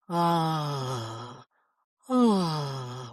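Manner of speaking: a low released ah with the jaw slack. Shown as a demonstration. Coach massaging round the mouth, low relaxed ah. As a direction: let a low ah drop out. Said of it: "Continue to make sound".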